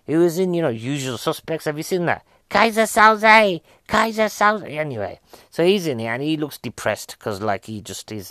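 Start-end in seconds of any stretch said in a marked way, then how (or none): 2.5-4.7 high, drawn-out exclamation; mock dramatic cry. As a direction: cry the name out with hammed-up drama. Calls out a film character's name.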